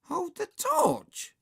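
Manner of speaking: slow, high, incredulous query; dismayed question. Acted. Peter hears his lowly job, dismayed. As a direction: echo the order in disbelief.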